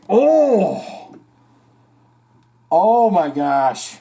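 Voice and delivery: high sudden "Oh!" of recognition; light up as the memory hits; delighted gasp of recognition; surprised. Real, not acted. Sudden recognition of band name.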